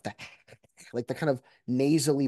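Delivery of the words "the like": Joe Pesci laugh. Shown as a demonstration. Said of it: "It's the Joe Pesci laugh".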